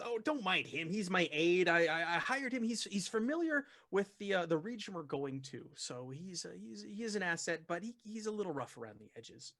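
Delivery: lightly voiced apologetic host; Augustus Larkin. Expedition leader excuses his rude aide, lightly acted and hesitant. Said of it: "Augustus Larkin says".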